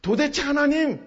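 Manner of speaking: weary question growing into anguished protest; lamenting. Acted. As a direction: lament building to an insistent appeal. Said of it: "하고 탄식하는".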